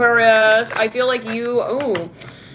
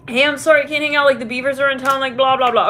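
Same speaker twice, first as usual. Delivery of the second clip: higher-pitched put-on apology; mock apologetic voice, pitched up; mock flaky excuse; 4 semitones higher than usual. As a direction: imitate someone reeling off a lame excuse. Acts out lame excuses to cancel.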